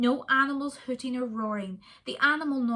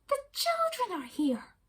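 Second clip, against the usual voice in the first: animal cry; 14 semitones higher than usual. Acted. Animal voice cries out in zoo.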